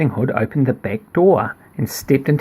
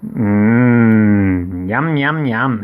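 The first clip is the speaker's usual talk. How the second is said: lightly voiced wolf; 3 semitones lower, much slower than usual. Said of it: "he said".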